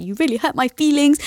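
mock-wounded, high-pitched complaint; worked up. Wife telling husband he upset her, worked up. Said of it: "I was getting myself all worked up".

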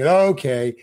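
jolly, drawn-out question, playing it breezy. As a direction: retell a cheerful, unworried actor asking slowly. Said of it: "I'm drunk and jolly".

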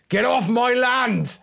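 high, slow mock bellow; imitating angry farmer dad. Imitating his dad yelling at dog owners, high mock bellow. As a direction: bellow at the trespassers like an old farmer. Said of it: "What you sounded like there was my dad".

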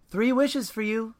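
high, slow mystical snake voice; magic snake. Acted. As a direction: grant the wishes like a magical snake. Magic snake grants wishes.

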